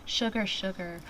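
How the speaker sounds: measured verse reading, phrase by phrase; poetry reading. Acted. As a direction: recite it as a love poem. Reads her own poem aloud.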